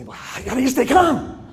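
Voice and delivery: high, amused mock question; exasperated parent asking. People asking the speaker, in a high amused mock voice. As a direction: play a frazzled parent asking, half laughing. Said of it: "so people say".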